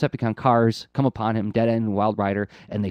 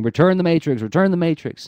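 higher, louder mock-ghostly chant; haunting ghosts; 7 semitones higher, 5 dB louder than usual. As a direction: imitate ghosts haunting a villain with a repeated demand. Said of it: "they're haunting him".

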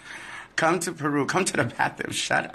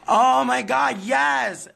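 much higher, louder delighted squeal; excited squeal; 12 semitones higher, 4 dB louder, much slower than usual. Real, not acted. Fan Ricky asks to hang out, excited squeal. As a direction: shriek with joy at the invite.

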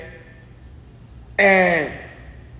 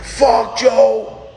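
retold shout; 3 semitones higher than usual. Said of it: "He was like".

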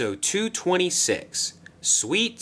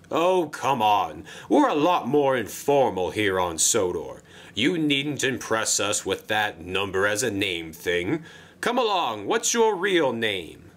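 a jolly controller pitching a job; Sir Topham Hatt voice. Acted. Sir Topham Hatt coaxes the engine.

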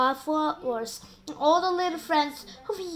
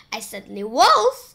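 loud sharp snap; snapping; 8 dB louder than usual. Acted. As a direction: snap it back hard. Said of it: "and Spiker snapped".

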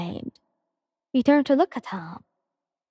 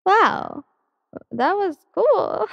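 excited; 8 semitones higher, much slower than usual. Real, not acted. Reader reacts after finishing story.

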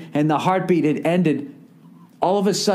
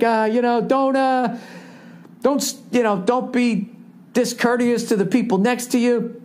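mock earnest announcer voice, higher; bland PSA voice; 6 semitones higher than usual. Comic mocking the stadium PSA in a bland voice. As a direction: parody a preachy stadium message. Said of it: "they just sit there going like".

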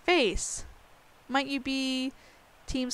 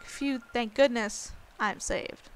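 relieved; 3 dB quieter, slower than usual. Shown as a demonstration. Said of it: "I guess that'd be more like".

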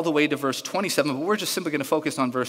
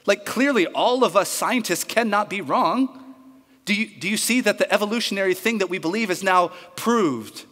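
loud, high, scandalised crowd voice; mock-outraged yelling at the lone dissenter; indignant outrage; 6 semitones higher, 3 dB louder than usual. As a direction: shout him down like an offended mob. Crowd of scientists rounds on him.

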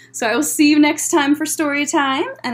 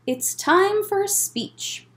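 screech; 8 semitones higher, slower than usual. A narrator's reading. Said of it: "he said with a screech".

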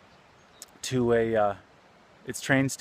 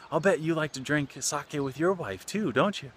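put-on friendly old man; 5 semitones higher than usual. Old man warmly teases laborer.

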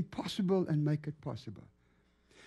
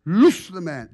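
retold rebuke that builds to a shout; commanding the demon; 7 dB louder than usual. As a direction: order the demon out, louder with each word.

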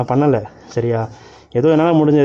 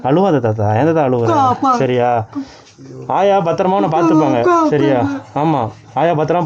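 consoling; 2 semitones lower than usual. Real, not acted. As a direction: gently talk a crying grandfather down. Consoling a crying old man.

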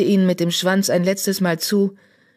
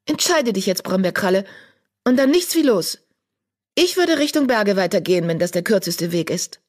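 eager apprentice; 4 semitones higher than usual. Acted. Young apprentice voiced by narrator.

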